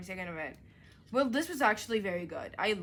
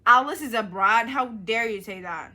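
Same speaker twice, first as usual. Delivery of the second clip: indignant; 2 semitones higher, 12 dB louder than usual. Real, not acted. Indignant at review line.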